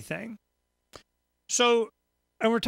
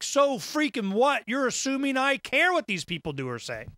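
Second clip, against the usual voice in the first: exasperated retort; 6 semitones higher than usual. Retold or imitated. Host retelling his answer to listeners, scoffing. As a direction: brush them off with disdain. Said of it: "I'm like".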